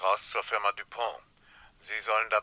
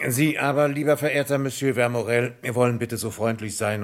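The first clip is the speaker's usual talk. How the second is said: raised, louder, over-polite address; pointed mock courtesy; 4 semitones higher, 4 dB louder than usual. Inspector addressing his suspect, pointedly over-courteous. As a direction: turn on the suspect with exaggerated politeness.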